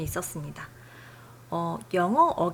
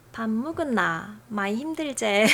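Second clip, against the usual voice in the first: Gyeongsang dialect attempt. Shown as a demonstration. Host trying a Gyeongsang accent he can't really do. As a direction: try out a Gyeongsang accent, unsure. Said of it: "사투리 말을 하도록 하면요".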